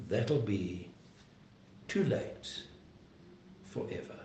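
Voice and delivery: breathy whisper, almost no voice; whispered warning. Real, not acted. Preacher warning the congregation, whispered. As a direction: hush it like a grave secret. Preacher warns of final judgment.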